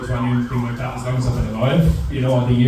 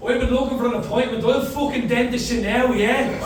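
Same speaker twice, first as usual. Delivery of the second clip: menacing caller; 9 semitones higher than usual. Retold or imitated. Caller turns aggressive.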